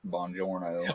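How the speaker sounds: put-on Buongiorno in a drawn-out Tennessee accent, Brad Pitt style; Tennessee-accented Italian. Imitating the movie character's bad Italian in a Tennessee accent. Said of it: "that was his French".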